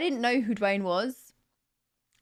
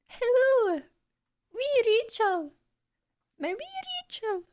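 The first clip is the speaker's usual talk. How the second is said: high, teasing put-on Scottish accent; mock Scottish, much higher; 13 semitones higher than usual. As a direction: coo at wee Rachel in a Scottish accent.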